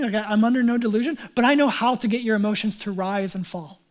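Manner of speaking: loud, earnest confession from the pulpit; impassioned preaching. Real, not acted. Preaches forcefully about own preaching.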